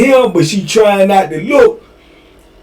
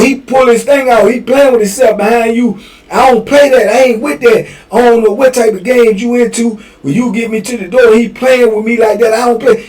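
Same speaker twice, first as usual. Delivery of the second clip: offended complaint; 6 semitones higher than usual. Retold or imitated.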